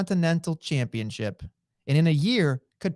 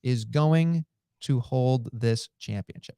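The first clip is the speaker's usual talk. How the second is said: slow, measured, low-ending quote; lightly voiced wrestler's solemn declaration; Gunther promo quote; 4 semitones lower, 3 dB quieter, slower than usual. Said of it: "in the Gunther promo, he did say".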